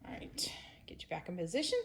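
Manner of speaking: soft whisper to the camera. Real, not acted. Repositioning the camera for viewers, in a soft whisper. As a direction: whisper while moving the camera.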